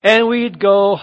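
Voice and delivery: ordinary talk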